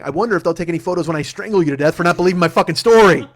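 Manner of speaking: indignant rant building to loud; mock threat. Husband mock-threatening his doubting wife, building exasperation. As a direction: build to a comic boil-over.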